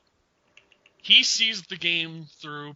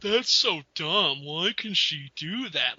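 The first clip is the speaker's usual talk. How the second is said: mock whining; slower than usual. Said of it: "he'll just be like".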